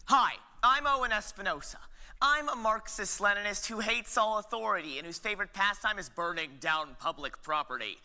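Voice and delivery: upbeat campaign-ad voice; a hint of a smug politician; confident candidate intro. Opens his one-person play.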